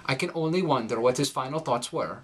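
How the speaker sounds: put-on a light Norwegian accent with darkened i and rising R endings; Scandinavian accent. Norwegian fugitive mourning his lost friend Lars, in a Scandinavian accent. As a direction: read the speech with a Swedish lilt. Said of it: "The following is taken from The Martian Shuffle".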